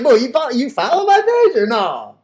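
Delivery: taunting with a laugh. Acted. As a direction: laugh at them while asking. Mocking imagined followers.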